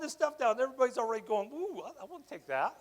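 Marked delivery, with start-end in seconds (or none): 1.5-2.7 mock eager grab. Crew coveting retiree's gear.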